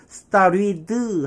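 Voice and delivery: "started" as "sta-ri-duh", vowel after the D; 끝 D를 '드'로. Shown as a demonstration. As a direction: add a full syllable to the final D of "started". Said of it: "하지 마시고 받침으로". ('started'를 '스따리드'로)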